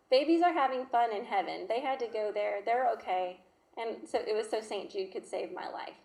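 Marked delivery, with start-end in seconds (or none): 0.1-3.4 put-on child's voice. Daughter voiced cheerfully.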